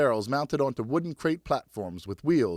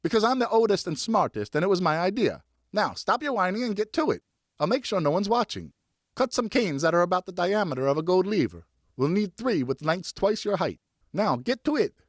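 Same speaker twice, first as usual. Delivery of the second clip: put-on bossy older brother; 6 semitones higher than usual. Older brother bosses younger.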